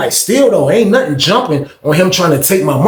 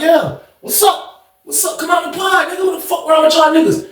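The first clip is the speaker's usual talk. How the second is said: challenging shout; 11 semitones higher than usual. Retold or imitated. Backing down the steps, calling out the rivals: taunting shout. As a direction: call them out to come down.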